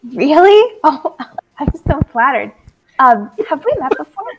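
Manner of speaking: flattered gush. Acted. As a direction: gush like you're thrilled to be noticed. Holly flattered, laughing.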